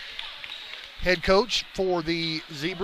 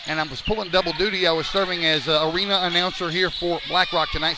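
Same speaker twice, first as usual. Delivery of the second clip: out of breath. Real, not acted. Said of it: "so I'm a little bit out of breath".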